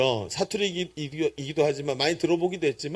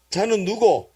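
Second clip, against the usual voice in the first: higher, punchy Gyeongsang question; Gyeongsang dialect; 4 semitones higher, slower than usual. Shown as a demonstration. Preacher asks who that child is, in Gyeongsang dialect. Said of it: "경상도 사투리로".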